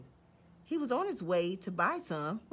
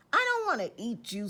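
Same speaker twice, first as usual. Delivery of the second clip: sniffling; 4 semitones higher, 4 dB louder than usual. Acted. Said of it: "sniffled the Big Bad".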